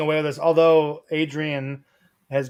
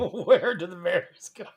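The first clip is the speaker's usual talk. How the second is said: laughing; 2 semitones higher, 4 dB quieter, slower than usual. Real, not acted. Repeats it laughing.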